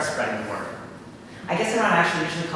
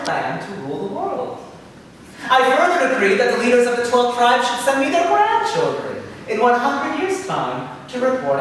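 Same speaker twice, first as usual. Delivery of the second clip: Satan voice; 5 semitones higher than usual. Retold or imitated. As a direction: proclaim it like a pompous demon lord. Satan addresses the tribes.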